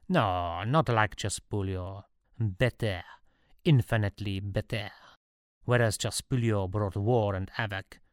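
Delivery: a would-be emperor addressing his subject; lightly accented story character; self-assured ruler's pronouncement; lightly voiced Napoleon.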